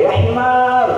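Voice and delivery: mock angry insult. Teacher showing students how Arabs curse, mock angry. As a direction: fling the insult like an angry Arab. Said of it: "marahnya setengah mati".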